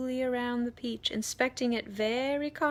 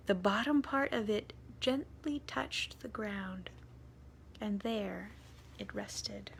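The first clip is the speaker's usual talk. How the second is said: hushed narration. A narrator's reading.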